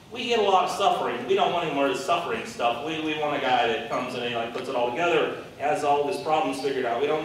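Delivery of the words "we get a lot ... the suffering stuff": fast, fed-up rant; mock complaint. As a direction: brush it off impatiently. Voicing the people's complaint.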